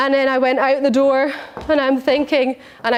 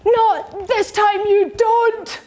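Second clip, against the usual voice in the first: defiant retort; 8 semitones higher, much slower than usual. Retold or imitated. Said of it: "actually did this to the mirror".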